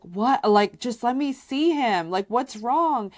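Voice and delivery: panicked demand. Retold or imitated. Mother begging the sitter to show her son, high and urgent. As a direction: insist on seeing the child now.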